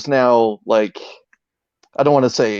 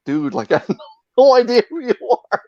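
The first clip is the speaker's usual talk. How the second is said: dismissive brush-off; 11 semitones higher than usual. Retold or imitated. Quoting a dismissive reply.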